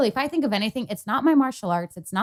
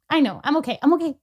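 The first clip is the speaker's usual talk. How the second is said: real tearful reassurance, pitched up; holding back tears, higher voice; teary-eyed; 5 semitones higher, 4 dB louder than usual. Real, not acted. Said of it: "teary-eyed 'cause that really stresses me".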